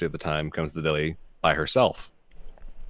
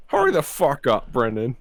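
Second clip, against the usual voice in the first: rude shout; 6 semitones higher, 3 dB louder than usual. Retold or imitated. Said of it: "it's all because Chris started it".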